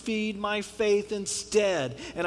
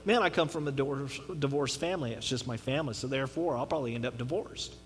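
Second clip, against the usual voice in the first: defeated resignation; 5 semitones lower, 4 dB quieter than usual. Retold or imitated. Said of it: "Others deal with stuff like".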